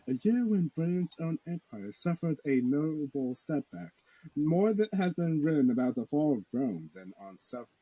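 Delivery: quiet, listless classroom read-aloud; dutiful, uninterested textbook drone; unenthused reading. Shown as a demonstration. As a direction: read it out like you were forced to in class. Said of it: "the most unenthused voice ever".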